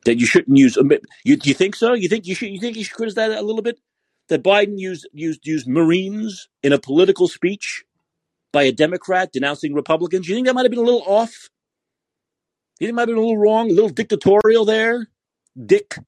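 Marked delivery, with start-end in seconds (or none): 1.2-15.1 high mocking sarcastic questions; needling sarcasm, much higher. Mock questioning of Biden critics. 15.7-16.0 Dick spat out very high and hard; emphasis on dick. Shown as a demonstration. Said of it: "Emphasis on the dick".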